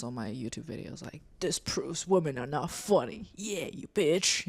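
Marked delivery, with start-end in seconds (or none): 1.4-4.5 lightly voiced slow, smug troll; mock online commenter. Comedian imitating men who leave comments on their videos, slow mockery.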